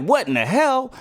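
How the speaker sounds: high-pitched acted bafflement; mock startled disbelief. Voicing the character finding it missing, mock startled. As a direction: jump up high in mock surprise.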